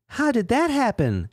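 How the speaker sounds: very high falsetto gratitude; squeaky, sugary thanks; Sarah voice. Acted.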